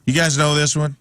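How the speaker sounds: a hint of a singer cueing the crowd; lead singer addressing crowd. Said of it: "take the cue from the lead singer of the band".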